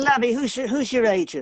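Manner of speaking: high, sweet English lady. Retelling how a casting director pulled him aside in a lobby: imitating Joanna Ray, English lady. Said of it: "she's this sweet little English lady".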